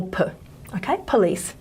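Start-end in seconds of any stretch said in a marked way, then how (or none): 0.0-0.2 "P" as a short, weak "puh"; unstressed schwa. Shown as a demonstration. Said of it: "this is the unstressed syllable".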